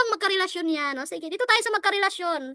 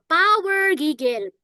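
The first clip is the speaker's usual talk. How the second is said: drawn out slowly; 3 dB louder, much slower than usual. Shown as a demonstration. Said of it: "pakitype naman po".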